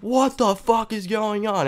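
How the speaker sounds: high-pitched, drawn-out mock scream; slow, squealed outburst at no extra volume; retold scream. Storyteller reliving his shock in the shower, high mock scream. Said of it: "I was, like, screaming my ass off".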